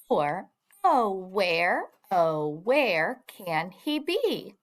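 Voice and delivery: put-on slow, deliberate children's verse reading; poem read-aloud. Shown as a demonstration. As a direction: read the rhyme slowly, line by line. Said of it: "I will read it".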